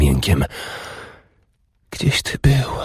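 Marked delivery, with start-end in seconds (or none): 1.9-2.7 whispered, airy, much higher; breathless whisper. A narrator's reading. Urdis whispering breathlessly to her lover. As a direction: gasp it out in a whisper. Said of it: "wyszeptała".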